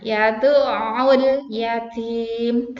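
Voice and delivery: "Yad'ul" with a throat catch on the ain, slow; ain stop in yad'ul. Shown as a demonstration. Teacher models the ain, slowly. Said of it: "ada tasdidnya".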